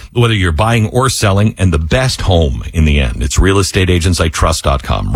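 upbeat radio ad read; smooth host-read commercial. Acted. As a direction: sell it like a live sponsor spot. Host reads sponsor ad.

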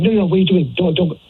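high, urgent mimicked protest; imitated panic. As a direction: mimic a flustered date trying to stop you. Mimicking his date stopping him.

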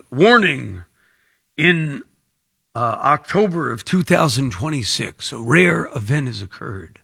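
lightly voiced doom-laden promo warning; mock sales pitch. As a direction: pretend to sell a dire market warning. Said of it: "I have the voice for it".

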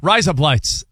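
light Australian twang on rise up lights; Australian accent. Shown as a demonstration. Joking to co-host, in a mild Australian accent. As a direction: say it the Aussie way so it sounds like razor blades. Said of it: "in an Australian accent".

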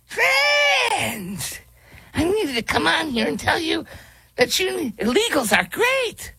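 put-on high, shouted children's host parody; mock kids' host. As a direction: squeal like a kids' show host.

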